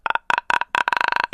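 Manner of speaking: unvoiced rasping clicks, half-done; clicker creature sounds. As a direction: rasp out a clicker's gasps. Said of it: "like that kind of thing".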